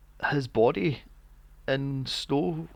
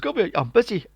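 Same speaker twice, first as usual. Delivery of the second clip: gruff mock brush-off; 6 semitones higher, 5 dB louder, faster than usual. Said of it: "And the guy goes".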